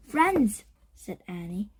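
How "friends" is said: high call over music; speaking loudly. A narrator's reading. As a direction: raise the voice to be heard over music. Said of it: "She spoke loudly to be heard over the music".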